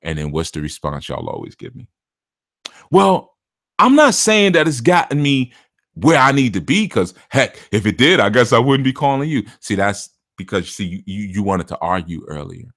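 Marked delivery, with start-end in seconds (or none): 2.9-9.4 much higher, louder defensive whine; mocking whiny caller. Mocking a client defending himself to the reader. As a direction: whine back like a caught-out client.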